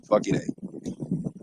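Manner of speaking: slow whispered fucking A; drawn-out whisper. Real, not acted. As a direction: breathe it out slowly, high. Same exclamation, whispered drawn out.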